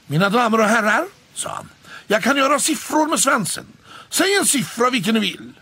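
high, loud stage patter; loud high showman cat; showman announcer. A narrator's reading. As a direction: address the crowd like a circus act. Stage cat announces his trick.

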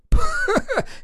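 high mocking burst of laughter; scornful laugh. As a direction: laugh off the offer. Mechanic laughs at price. (насмешливый смех)

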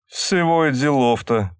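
gentle admiring echo; tender. A narrator's reading. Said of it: "ласково повторил восхищённый".

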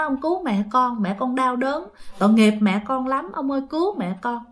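softly imitating a child begging; understated mimicked crying plea, soft; retold tearful plea. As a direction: plead gently, as a child in tears would, only lightly acted. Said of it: "nó khóc lên".

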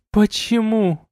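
tipsy heroine pleading why; drunk young woman. A narrator's reading. Elina hitting him.

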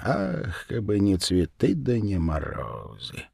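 put-on slow, hushed sighing old woman; sighing lament. A narrator's reading. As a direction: sigh out an old proverb in resignation. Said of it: "громко на всю избу вздохнула".

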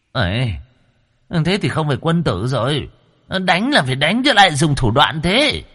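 high-pitched whiny objection; indignant protest. A narrator's reading. Captive soul objecting to the demon's dirty tricks, whiny protest.

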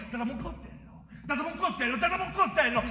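rising from a soft start to a demand; building demand. Acted. Tormentor demanding a knife.

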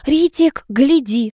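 high little squeak. A narrator's reading. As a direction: squeak the call out. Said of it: "как Алка пискнула".

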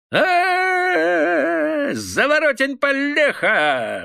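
very high, loud, slow whoop; sudden yell. A narrator's reading. Obalduy suddenly bawling at the ragged peasant, high yell. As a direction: howl out the name mockingly. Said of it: "завопил вдруг Обалдуй".

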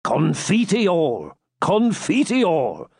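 slow, pleading confession; submissive. A narrator's reading. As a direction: beg for mercy, drawn out. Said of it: "in a submissive tone".

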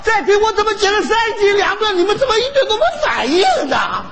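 high, laughing mock outrage; mock exasperation. Grandpa fakes anger at no reaction.

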